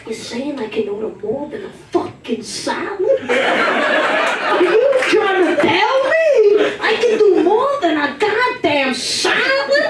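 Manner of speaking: a mock mobster winding up, laughing through it; Joe Pesci indignation. Comic imitating her Italian side at the date, building mock outrage. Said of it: "I felt like Joe Pesci in that bitch".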